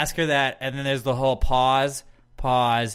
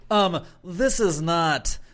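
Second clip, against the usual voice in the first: snobby drinker; 3 dB quieter, much slower than usual. Retold or imitated.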